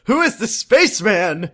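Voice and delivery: high, loud awed question; lightly voiced dazzled customer. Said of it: "And he's like".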